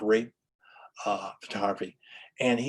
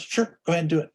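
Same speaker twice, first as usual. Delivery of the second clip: a lightly voiced supportive wife, higher and louder; encouraging wife; 7 semitones higher, 6 dB louder, faster than usual. Wife Bertha urging her husband to go ahead, bright and encouraging. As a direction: cheer him on with a bright yes.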